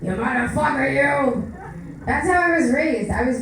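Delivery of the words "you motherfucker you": Joe Pesci impression. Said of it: "raised by Joe Pesci".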